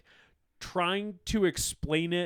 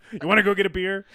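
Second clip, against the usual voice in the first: laughing; 4 semitones higher, 7 dB louder, much faster than usual. Pretend. Voicing Lazarus flirting.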